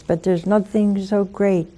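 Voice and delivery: usual speaking voice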